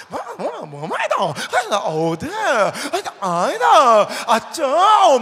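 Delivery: loud, shouted Gyeongsang dialect mimicry; Busan dialect. 부산 사투리 쓰는 아이들을 흉내 내며 크게 외침. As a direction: bark it like the kids squabbling in Busan dialect.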